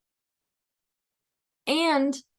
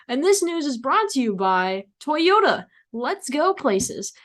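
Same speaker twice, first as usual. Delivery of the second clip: mock sponsor read with the tagline slowed; lightly hammed-up radio ad voice; podcast ad read; 3 semitones higher than usual. Shown as a demonstration. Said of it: "My podcasting voice".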